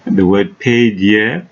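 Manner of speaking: slow down and lean on "paid"; "paid" stressed and drawn out slowly; emphasis on PAID. Real, not acted. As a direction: make "paid" the key word, unhurried. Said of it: "I want to emphasize".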